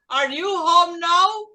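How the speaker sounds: slow, loud, carefully spaced English; teacher models it slowly for class to copy; slow model phrase. Shown as a demonstration. Teacher models for the class, slow and loud.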